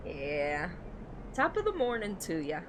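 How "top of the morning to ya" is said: higher, half-hearted Irish greeting; lightly attempted Irish lilt; bad Irish accent. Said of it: "I can't do the Irish accent".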